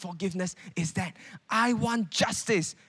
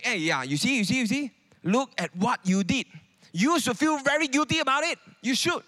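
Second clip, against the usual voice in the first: guilt-tripping mock; 5 semitones higher than usual. Preacher acts a brother guilt-tripping his brothers, high accusing voice. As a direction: rub their faces in it, a nagging guilt trip. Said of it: "go and say".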